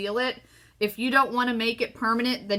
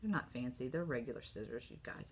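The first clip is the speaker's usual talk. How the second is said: silly; 7 semitones lower, 12 dB quieter than usual. Real, not acted. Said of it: "I'm just being silly".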